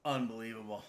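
quiet disbelief; stunned mutter. Real, not acted. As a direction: say it under your breath, stunned. Escalating repeats of unbelievable.

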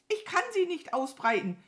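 high, loud panicky wail; shrieky lament. A narrator's reading. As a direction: whine helplessly as a frightened crow. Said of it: "jammerte sie".

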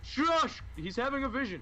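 mock hushing.

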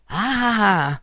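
narrator's mock scream; mild scream. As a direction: let out a restrained storyteller's cry of fright. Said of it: "un urlo lo atterrì".

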